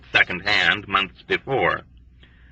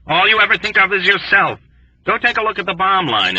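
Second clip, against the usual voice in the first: higher, whining reproach; mournful accusing disgust; 9 semitones higher than usual. A narrator's reading. Doktonika to Yossarian, mournfully accusing. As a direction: blame him with mournful scorn. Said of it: "exclaimed mournfully with accusing disgust".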